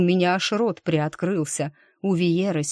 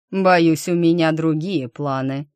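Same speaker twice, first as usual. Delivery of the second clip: menacing; 3 dB louder than usual. Acted. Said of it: "исчезла насмешка, зато в нём появилась опасность".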